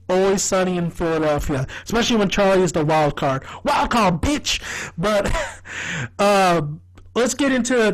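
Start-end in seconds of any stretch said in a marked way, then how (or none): 3.6-4.6 high, punchy shouted catchphrase; catchphrase yell. Retold or imitated. Quoting Charlie as the wild card, high shouted catchphrase. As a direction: throw it out as a gleeful yell.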